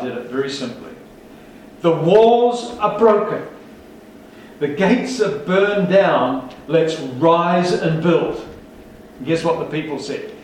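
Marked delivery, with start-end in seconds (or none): 1.8-8.4 slow, loud proclamation; 1 rallying call. Retold or imitated. Nehemiah to the people, a slow loud rallying cry. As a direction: call the people to rise up, slowly and boldly.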